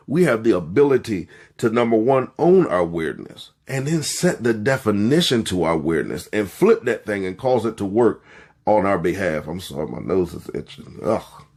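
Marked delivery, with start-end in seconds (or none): none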